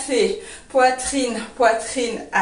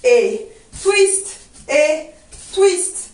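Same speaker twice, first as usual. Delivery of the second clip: drawn-out beats on "twist", higher at the end; dance teacher marking accents; rhythmic dance cue; 4 semitones higher, much slower than usual. Shown as a demonstration. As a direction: call the twists on the beat, with gaps. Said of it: "je fais".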